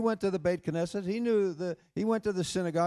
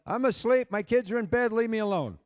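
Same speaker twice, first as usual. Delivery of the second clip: high, loud retort from an imitated sleeper; acted-out irritated shout; annoyed yell; 6 semitones higher, 4 dB louder than usual. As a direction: yell it back at the late-night caller. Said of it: "And the friend yelled".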